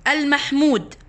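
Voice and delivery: slow, measured, word by word with pauses; dictating a definition. Real, not acted. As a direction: spell out each phrase slowly for memorizing. (إملاء تعريف ببطء وتأنٍّ)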